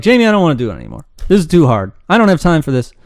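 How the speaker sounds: mock whine from a fed-up student; whining student. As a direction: blurt it out like a student quitting. Student quitting, acted quote.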